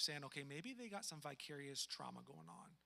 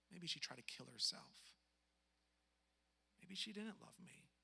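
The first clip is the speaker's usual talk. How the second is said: sad inner doubt; 2 semitones lower, 5 dB quieter than usual. Retold or imitated.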